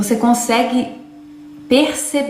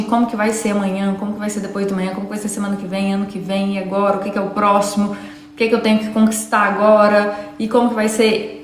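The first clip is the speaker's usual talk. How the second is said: quick, run-on list of anxious questions; anxious rattling-off; faster than usual. Acted. Preacher mimicking the anxious generation's endless what-ifs, rattled off. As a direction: rattle off worries one after another.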